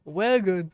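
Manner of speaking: "wagon" with a short open vowel, WEG-un; attempted short-A wagon. Shown as a demonstration. Attempting wagon without the way, short vowel in "wagon". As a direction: try "wagon" slowly, avoiding the WAY sound. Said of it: "I don't know how people say that without the way".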